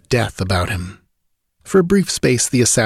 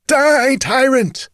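very high, louder frenzied shriek; mad scream; 3 dB louder, much slower than usual. A narrator's reading. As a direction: scream it like a crazed attacker. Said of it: "screamed the mad minstrel".

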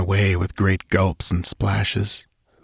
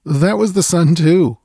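boisterous laugh; 9 semitones higher, 4 dB louder than usual. Acted. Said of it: "I laughed, a trifle boisterously".

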